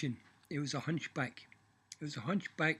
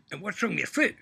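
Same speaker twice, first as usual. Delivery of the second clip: devil's question; 5 semitones higher, 6 dB louder, faster than usual. Acted. Devil asks Michael.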